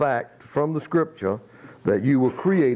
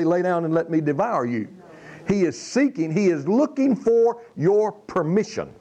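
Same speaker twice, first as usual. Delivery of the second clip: raised, rising pulpit preaching voice; fervent sermon build; 3 semitones higher than usual. Acted. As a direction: drive it home to the congregation. Preacher building to full force.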